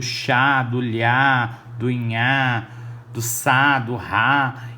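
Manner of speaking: each of "chá, lhá, nhaá, sá, rá" punched and drawn out; sílabas-modelo. Shown as a demonstration. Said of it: "ouvir esse mesmo som". ("chá, lhá, nhaá, sá, rá" bem destacados)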